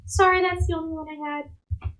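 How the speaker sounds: lightly voiced little girl. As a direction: apologise like a little kid. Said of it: "looks at you guys and goes".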